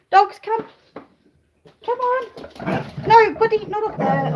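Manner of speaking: high dog-calling voice. Real, not acted. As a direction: call the dogs in, then stop one. Calling and scolding the dogs.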